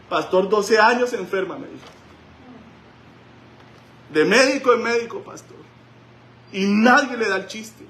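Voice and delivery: high, loud pleading lament; crying woman. Retold or imitated. Woman tells the pastor of twelve years sick, high and tearful. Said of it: "llorando, claro".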